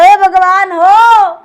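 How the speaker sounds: slow, loud drawn-out wail to God; anguished cry. Acted. Farmer wails to God over the foolish servants, slow and loud.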